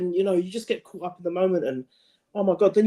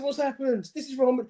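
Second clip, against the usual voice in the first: a lifted, breathless voice of disbelief; mock amazed fan; retold stunned disbelief; 5 semitones higher, 3 dB quieter than usual. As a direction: relive the shock of the goal, half-acted. Retelling his reaction to the goal.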